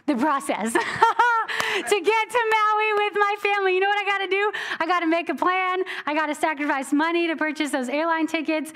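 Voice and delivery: fed-up laughing complaint; exasperated rant. Real, not acted. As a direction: vent about the airport ordeal. Venting about travel hassle.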